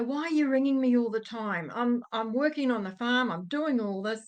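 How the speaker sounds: mildly irritated imitation of a father; mock grievance at being pestered; angry dad. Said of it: "got his angry voice going".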